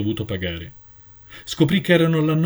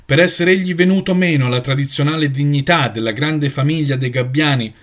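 intoning, slightly raised and firm; solemn voice; 2 semitones higher, 4 dB louder than usual. Acted. Elder reads the charges to the flock, solemn. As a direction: chant the charge like a ritual. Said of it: "intonava la voce solenne".

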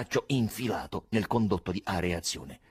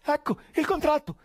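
high, loud, broken-up outbursts; raving high-pitched shouting; shouting disjointedly; 7 dB louder than usual. A narrator's reading. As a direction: yell it out in frantic bursts. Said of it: "gridando frasi sconnesse".

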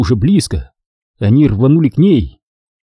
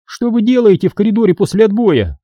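higher, stern teacher voice; lightly voiced strict supervisor; stern question; 10 semitones higher than usual. A narrator's reading. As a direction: demand it like a strict warden. Obin scolding students.

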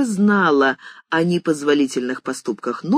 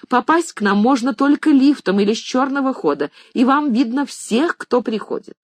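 angry mistress; 6 semitones higher than usual. A narrator's reading. Mistress rebuking maid about thief, angry. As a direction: tear into her story.

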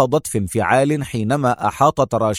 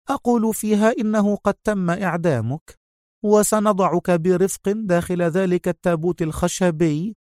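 calm; 8 semitones higher than usual. A narrator's reading. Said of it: "تستطرد في هدوء".

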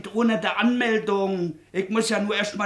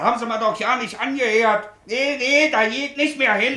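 agitated outburst; 6 semitones higher, 4 dB louder than usual. Acted. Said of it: "nun regen Sie sich mal nicht auf hier".

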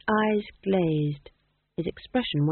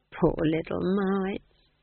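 tender; much slower than usual. Acted. Nanny pitying children.

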